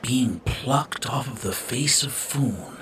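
brooding villain. Acted. Dark brooding villain speech.

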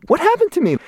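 very high, incredulous inner wail; comic, high-pitched disbelief; imitated inner bewilderment. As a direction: act out baffled dismay at yourself. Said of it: "I'm just like".

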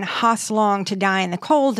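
"Haas" said like "hoss"; "Haas" pronounced "hahss"; typo read literally. Shown as a demonstration. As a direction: read the misspelt "Haas" as written, in place of "how". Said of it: "that was meant to be".

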